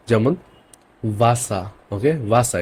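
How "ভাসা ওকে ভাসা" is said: "ভাসা" with a V between Bengali ব and ভ; German W as V. Shown as a demonstration. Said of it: "ভ এর মতো". ("ভাসা" ব আর ভ-এর মাঝখানে)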